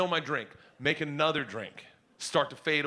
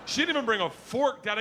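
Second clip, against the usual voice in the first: higher, indignant little-sister tattle; a hint of tattling kid; 6 semitones higher than usual. Daughter tattling to dad about her sister, indignant.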